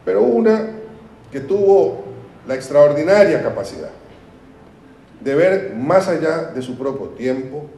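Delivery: rising orator's emphasis; emphatic oratory. Real, not acted. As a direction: lift it like a speech's peak moment.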